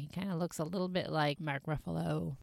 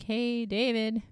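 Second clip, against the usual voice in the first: calling out; 7 semitones higher than usual. Acted. Imagined someone looking for David.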